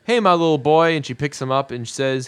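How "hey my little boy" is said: lightly imitated cooing at a baby, slightly higher; doting aunt. Monica greeting her little nephew, mildly cooing.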